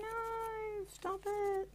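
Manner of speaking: coy high-pitched stop it; teasing protest to Jane; mock protest.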